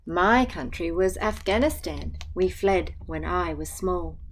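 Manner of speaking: gentle, even picture-book reading; reading to children. Acted. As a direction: read the rhyme aloud to a class. Teacher reads picture book aloud.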